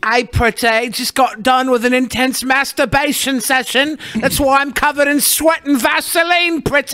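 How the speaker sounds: creepy guy voice. Pretend. Mocking the creepy caller.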